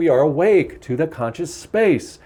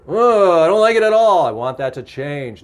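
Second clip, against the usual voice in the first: mildly upset complaint; 3 semitones higher than usual. Shown as a demonstration. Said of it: "I'm supposed to tell you that I'm angry".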